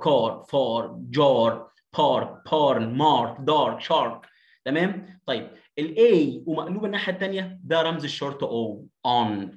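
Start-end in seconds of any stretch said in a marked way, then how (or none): 0.0-4.3 "car, far, jar, park, barn, mark, dar, shark" with long dark ah; emphatic ah before R. Shown as a demonstration. Teacher drilling words with R, emphatic long vowel. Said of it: "هتنطقها كده". 9.1-9.6 American "on" with an open ah vowel; American accent. Shown as a demonstration. Teacher modelling the short O symbol, American accent. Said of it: "في الأمريكان أكسنت".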